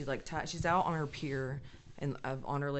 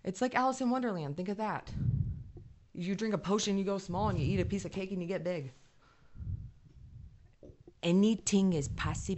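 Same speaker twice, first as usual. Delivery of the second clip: higher, dreamy and full of wonder; wonder-struck pitch; 5 semitones higher than usual. Real, not acted. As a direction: sell the magic like a storyteller. Pitching fairy world with wonder.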